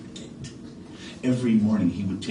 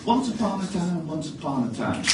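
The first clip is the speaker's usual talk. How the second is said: higher, louder storyteller call; bright opening; 8 semitones higher, 3 dB louder than usual. Acted. Storyteller restarting, louder and higher. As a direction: announce the story aloud.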